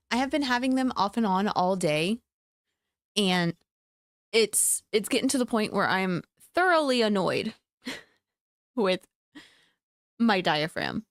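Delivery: talking through hiccups. Real, not acted. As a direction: speak with hiccups catching. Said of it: "I have the hiccups again".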